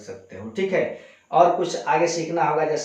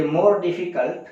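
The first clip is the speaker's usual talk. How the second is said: slow stressed phrase; 2 semitones higher, 3 dB louder, much slower than usual. Shown as a demonstration. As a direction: say "more difficult" slowly, leaning on "more". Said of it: "teacher stresses comparative". ("more" पर ज़ोर देकर धीमे बोलना)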